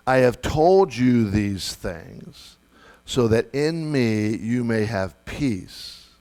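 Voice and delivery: slow, measured Bible reading; scripture reading. Acted. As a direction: read the verse slowly and solemnly.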